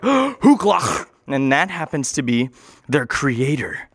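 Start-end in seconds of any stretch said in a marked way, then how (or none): 0.0-1.1 awed gasp. Retold or imitated. They're like, gasps.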